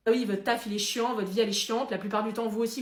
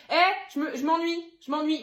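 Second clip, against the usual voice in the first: higher, louder whining repeat; bored whine; 4 semitones higher, 4 dB louder than usual. Acted. Baby complaining to parents that it is bored, whining.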